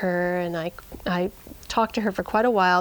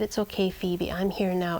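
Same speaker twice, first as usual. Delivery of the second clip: soothing; 2 semitones lower, 5 dB quieter than usual. Retold or imitated. Comforting the frightened sheep.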